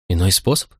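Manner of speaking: mildly incredulous echo, rising at the end; a touch of tearful amazement; astonished sob. A narrator's reading. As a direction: lift "способ" into a disbelieving question. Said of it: "всхлипнула изумлённо Помпония".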